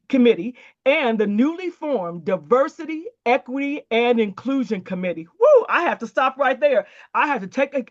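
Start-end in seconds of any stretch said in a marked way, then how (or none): 5.4-5.7 thrilled exhaled "woo"; a quick woo of real excitement; excited woo. Real, not acted. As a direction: let out an excited whoop to catch your breath. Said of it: "catch my breath 'cause I was excited".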